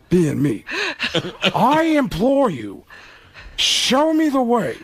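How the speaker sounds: slow anguished Pacino, rising to a high laughing wail; Pacino impression. Pacino asking Alec how playing him is fun, anguished. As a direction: plead it like a tortured Pacino. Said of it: "Pacino looked at him and said".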